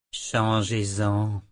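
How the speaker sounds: slow, icy, smiling command; drawn out with a cold smile. Acted. Michael coldly orders Callan to change plans, icy and slow. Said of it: "lança-t-il avec un sourire glacial".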